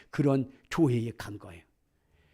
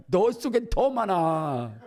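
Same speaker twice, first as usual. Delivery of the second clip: laughing taunt; 3 semitones higher, 3 dB louder, much slower than usual. Retold or imitated. Spirit taunting the pastor's wife.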